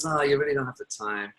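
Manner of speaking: a hint of a sneaky inner whisper; mock whisper. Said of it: "it's gonna whisper something like".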